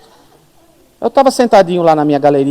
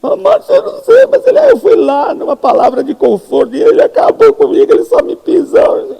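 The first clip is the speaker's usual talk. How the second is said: much higher, louder, dragged-out whimpering; wailing complaint; 6 dB louder than usual. Retold or imitated. Congregant wailing to Márcio that the pastor trampled her, much higher hammed-up whimper.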